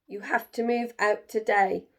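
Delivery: loud, fed-up protest easing at the end; crying out. Acted. Jim tells the animals to move out, loud exasperated. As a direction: let it all out, then lay down the law. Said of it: "cried Jim".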